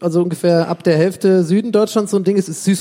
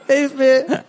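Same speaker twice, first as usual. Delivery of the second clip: put-on child calling for help; 6 semitones higher than usual. Acted child stuck in drum.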